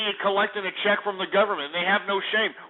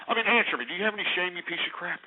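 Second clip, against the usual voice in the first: exasperated questioning, trailing softer; indignant demand; 5 dB quieter, faster than usual. Real, not acted. Host waiting on silent caller, indignant. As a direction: press for an answer, sinking into disgust.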